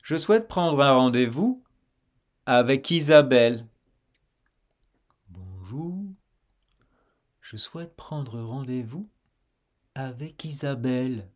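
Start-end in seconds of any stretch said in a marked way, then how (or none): 5.3-11.3 much softer repeat. Shown as a demonstration. Quiet repeat model.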